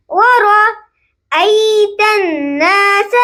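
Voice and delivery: ورأیت with a full, heavy ra. Shown as a demonstration. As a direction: thicken the ra in ورأیت. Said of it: "را کی آواز موٹی آنی چاہیے". (ورأیت کی را موٹی پڑھیں)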